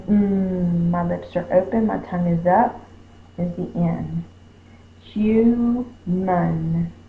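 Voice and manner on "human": syllable by syllable. Shown as a demonstration. Teacher splits the word into syllables.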